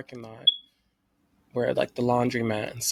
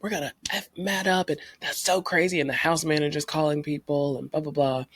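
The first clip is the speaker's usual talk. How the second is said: housemates riled up; 3 semitones higher than usual. Retold or imitated. Housemates riled up about the stolen car, excited. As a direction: rattle it off like riled-up roommates. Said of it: "everyone else is like".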